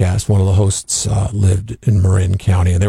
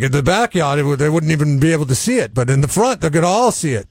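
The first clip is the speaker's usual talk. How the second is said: a hint of an Irish lilt, higher; light Irish accent; 6 semitones higher, faster than usual. Host imitating his Irish sprinkler guy, light Irish accent. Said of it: "he's Irish, so he says it like".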